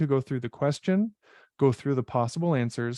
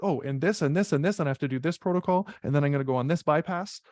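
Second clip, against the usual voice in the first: hyped up; 3 semitones higher, faster than usual. Retold or imitated. Instructor mimicking a student rushing ahead, hyped-up and fast. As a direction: rattle it off like an overexcited test taker. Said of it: "get all hyped up and be like".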